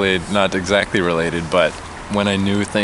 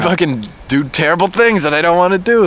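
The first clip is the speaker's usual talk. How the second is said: mock worked-up dread; 8 semitones higher, 4 dB louder than usual. Imagined pent-up urge, acted out.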